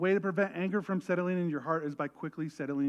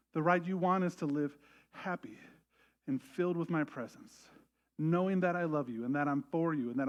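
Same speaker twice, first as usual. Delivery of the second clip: reassuring. Retold or imitated. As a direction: comfort a hurting listener. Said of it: "He goes".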